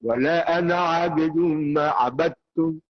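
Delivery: slow "Wala ana abidun ma abadtum" with the dal of "abadtum" merged away; correct reading. Shown as a demonstration. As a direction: model the proper idgham in "ma abadtum". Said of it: "tapi bacanya".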